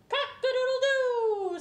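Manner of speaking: high, loud rooster crow; full cock-a-doodle-doo. Acted. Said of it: "said Gloria".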